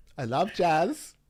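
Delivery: put-on Swedish accent, sliding over from French accent. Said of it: "I've just gone Swedish".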